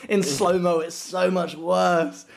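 high, loud urgent "Mate"; retold warning. Retelling talking back to the tackler, lively warning. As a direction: warn him, half laughing. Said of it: "And I was like".

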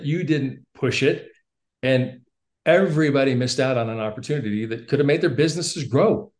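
mentor scolding his newlywed recruit on the phone, mildly heated; frustrated mentor. Retold or imitated. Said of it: "he started getting frustrated".

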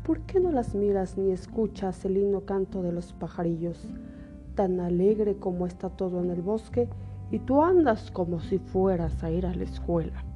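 wolf voice. Acted. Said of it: "le dijo".

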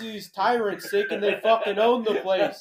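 rally the troops in a hammed-up speech; mock-indignant colonial oratory; mock patriotic speech. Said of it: "Give the speech".

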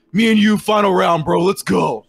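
acted competitive hype; psyched-up challenge. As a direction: throw down the final challenge. Rival psyching up for final round.

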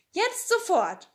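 put-on high, keen little girl; eager Annika. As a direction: urge them to go right now.

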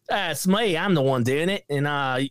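lightly put-on New Zealand accent; a hint of a thick New Zealand villain accent; mock New Zealand accent. Reviewer mocking the movie villain in a lightly put-on New Zealand accent. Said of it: "a guy with such a thick accent".

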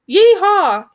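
high, loud cowboy whoop; yell. A narrator's reading. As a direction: whoop it out with gusto. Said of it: "yelled the second".

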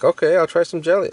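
bad Southern accent. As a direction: overdo a Southern accent on purpose. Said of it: "Did that accent sound better?".

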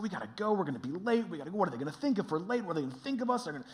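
hurried, anxious muttering to himself; acted-out nervous rush; stressed out. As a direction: fret about being late, words tumbling. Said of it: "I'm downstairs stressed out".

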